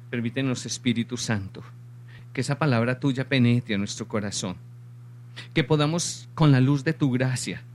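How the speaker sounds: earnest petition in measured phrases; spoken prayer. Real, not acted. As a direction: pray aloud to God, pausing between each plea. Closes by leading a prayer. (oración de súplica)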